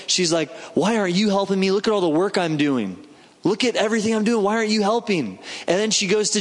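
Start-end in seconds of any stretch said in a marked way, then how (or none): 0.7-5.4 mildly acted upset sister, pitch climbing; mock-indignant griping at a sister who won't help; indignant complaint. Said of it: "But Martha's indignant. She's upset".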